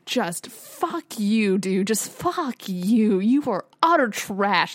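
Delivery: drawn-out, disgusted "fuck you"; indignant rant. Acted. Viewer cursing out Prince Charles on screen, indignant. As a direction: spit out slow, exasperated insults.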